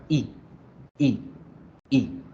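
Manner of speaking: "I" as a brief, relaxed vowel cut off quickly; quick separate bursts of short "I"; short English i. Shown as a demonstration. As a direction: say "I" short, mouth neutral. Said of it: "Esa es la I corta".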